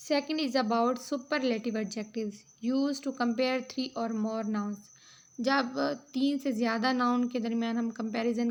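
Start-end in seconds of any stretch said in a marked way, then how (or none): 0.1-4.8 reading out notes, very slow and deliberate; measured classroom read-aloud; slow dictation reading. Acted. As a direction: dictate each phrase slowly for students to copy. Reads English note slowly.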